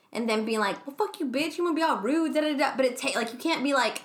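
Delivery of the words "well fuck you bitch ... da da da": higher-pitched mock offended guy; mock overbearing. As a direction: imitate a pushy man's huffy comeback. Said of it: "over, like, bearing".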